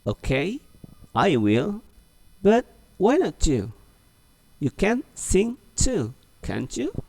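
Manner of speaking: high, slow, coaxing; high, slowed dialog read for repeating; model reading again. Shown as a demonstration. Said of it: "Oke, ulang lagi ya".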